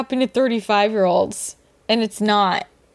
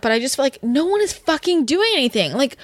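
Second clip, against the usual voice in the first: worked up; 5 semitones higher than usual. Real, not acted. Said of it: "sorry, I'm getting worked up".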